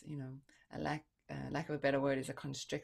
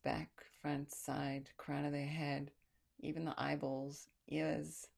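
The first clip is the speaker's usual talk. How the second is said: guided breathwork. Acted. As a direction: lead the breath gently. Guides breath through the body.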